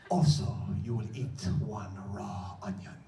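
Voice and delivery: put-on measured Egyptian accent prescription. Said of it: "he says in a heavy accent".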